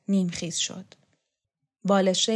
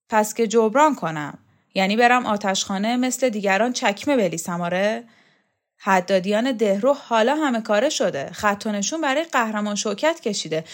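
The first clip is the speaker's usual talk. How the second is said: put-on louder, gruff old champion; Shokat's voice; 3 semitones higher, 5 dB louder than usual. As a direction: brush the boy off, irritated. Shokat mocking bitterly.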